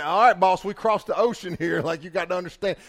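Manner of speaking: loud, high, lively outburst; mock protest. Storyteller playfully telling off the boss, loud mock protest. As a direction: raise your voice in a half-laughing challenge.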